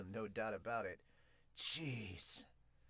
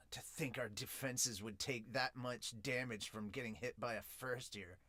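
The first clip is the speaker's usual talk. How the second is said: whisper; 3 semitones lower, 5 dB quieter than usual. Acted. Character's inner thought read.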